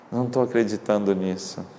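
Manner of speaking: softly murmured disbelief; hushed wonder. Retold or imitated. Missionary voices seminarian who can't believe it, in hushed wonder. Seminarian marvelling before his ordination.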